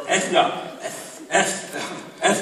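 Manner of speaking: S said with a lisp; comic lisping S. Shown as a demonstration. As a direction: lisp the letter S deliberately. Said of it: "Du skal lespe på en S".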